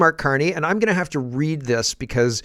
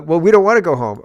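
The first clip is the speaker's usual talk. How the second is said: acted defiant migrant; 4 semitones higher, 8 dB louder than usual.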